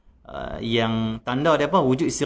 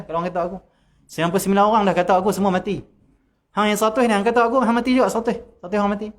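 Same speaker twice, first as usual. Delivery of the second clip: boastful threat; 8 semitones higher, 3 dB louder, faster than usual. Retold or imitated. Boastful false saint threatening critics.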